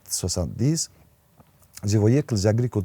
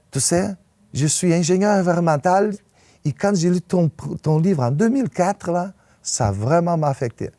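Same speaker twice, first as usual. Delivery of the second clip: much higher and louder, eager voice; quoting his son; 9 semitones higher, 5 dB louder than usual. Retold or imitated. Author retelling his grown son's praise, much higher and louder. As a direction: lift the voice high and loud as the proud son. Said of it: "Il, il m'a dit".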